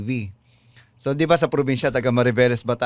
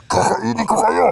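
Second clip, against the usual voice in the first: higher monster threat; 9 semitones higher, 4 dB louder than usual. Acted. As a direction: menace them like a monster. Monster in radio drama.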